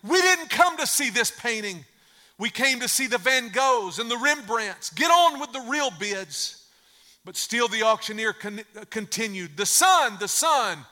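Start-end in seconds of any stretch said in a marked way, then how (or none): 0.0-6.6 raised, higher voice of an annoyed bidder; angry shout. Acted. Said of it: "another voice shouted out angrily". 9.6-10.9 lightly voiced auctioneer calling out the lot; auctioneer's call.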